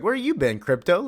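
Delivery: high-pitched talking-to-the-dog voice; retold playful greeting. Superman greeting Krypto the dog, playfully imitated. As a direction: pitch it way up, as to a pet.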